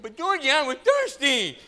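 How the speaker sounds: high, loud put-on protest; real loud. Pretend brother interrupting George at the counter, real loud. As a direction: cut in with a high hammed-up holler. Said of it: "real loud".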